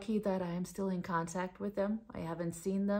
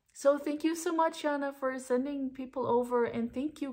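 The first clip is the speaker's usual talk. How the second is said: excited thanks; 7 semitones higher, 3 dB louder than usual. Real, not acted. Thanking Yana and viewers.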